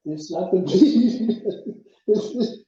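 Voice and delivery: a laugh breaking up "It stopped the bleeding"; amused retelling with a laugh; laughing through it. Real, not acted. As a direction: repeat it, cracking up mid-line. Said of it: "and it stopped the bleeding".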